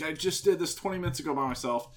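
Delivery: mildly imploring, voice lifted; pleading. Retold or imitated. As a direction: lightly imitate a mom pleading her case. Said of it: "the mom's pleading with the dad".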